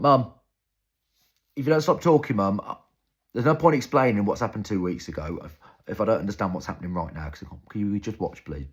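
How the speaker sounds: loud, high, fed-up outburst at mum; exasperated shout. Retold or imitated. Teenager snapping at mum over Downton Abbey, shouting in frustration. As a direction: yell at her to stop talking.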